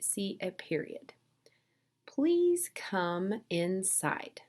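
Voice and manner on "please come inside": slow, measured polite request; simple request. Acted. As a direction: ask simply, drawing the words out. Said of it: "they're just simply asking you to come inside".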